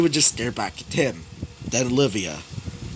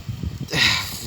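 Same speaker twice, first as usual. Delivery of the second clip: real frustrated sigh; exasperated sigh; 6 semitones lower, 4 dB quieter than usual. Real, not acted. Storyteller losing the word, exasperated sigh. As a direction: let out a sigh while stuck.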